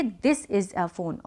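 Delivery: quiet, slow modelling. Shown as a demonstration. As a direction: repeat it slowly and gently for the class. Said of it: "तो हम क्या बोलेंगे".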